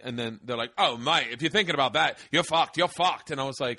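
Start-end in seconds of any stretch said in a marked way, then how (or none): 0.8-3.3 mock British warning, pitch climbing; horrible London accent. London comics reacting to a Bush joke, horrible British accent. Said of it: "I'm doing a horrible accent".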